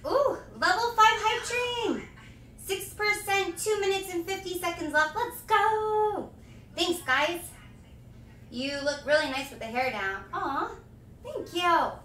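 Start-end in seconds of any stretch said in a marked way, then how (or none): 0.1-6.3 higher-pitched cheer at a milestone; excited hype. Real, not acted. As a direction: celebrate the hype train, pitched up.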